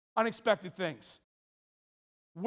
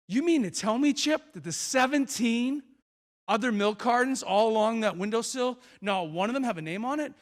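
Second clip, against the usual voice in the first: raised pitch, stretched in the middle; mock incredulity; 3 semitones higher than usual. Visitor questioning Chip about unnamed milk cartons, mock incredulous. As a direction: spell out the absurdity as a question.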